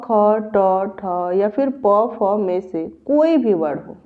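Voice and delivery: spaced-out syllables, drawn out for learners to follow; slow rule recitation. Shown as a demonstration. Teacher rereading the visarga rule for students, slow recitation. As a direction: read out slowly, word by word. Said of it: "एक बार और से पढ़ लीजिए".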